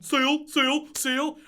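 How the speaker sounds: high, cartoon creature cry of Seal; Pokemon seal call. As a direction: chirp it like the Pokemon. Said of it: "when he was going".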